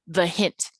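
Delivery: "the hint" with short THE, longer HINT; brief "the", weight landing on "hint"; unstressed-stressed pair. Shown as a demonstration. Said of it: "short, stressed is long".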